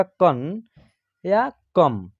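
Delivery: कन या कम said as kan, then kam with a closed m. Shown as a demonstration. Teacher showing students the two readings of कन या कम. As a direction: say कन, pause, then कम clearly. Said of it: "इसका उच्चारण होगा".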